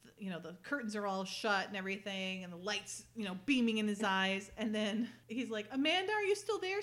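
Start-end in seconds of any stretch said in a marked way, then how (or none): 5.7-6.8 high, louder call into the dark. Retold or imitated. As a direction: call out for her, lost. Conrad calls out blindfolded.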